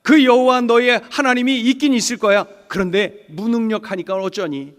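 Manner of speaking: acted taunt, loud then easing off; mocking. Another foreigner belittling the captive's God, mocking. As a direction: sneer in mock concession. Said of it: "누구는 또 조롱하죠".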